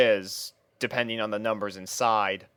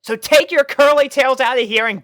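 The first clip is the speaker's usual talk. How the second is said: high, loud exasperated rant; angry scolding; 12 semitones higher, 9 dB louder than usual. A narrator's reading. Rainbow scolding the puppies who keep following. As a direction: tell them off, fed up.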